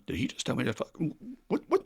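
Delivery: baffled double take, jumping high on the second what; stunned and half laughing, what what; confused sponsee. Retold or imitated. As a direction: sponsee thrown by his sponsor's curse, caught off guard. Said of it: "where his brain is going".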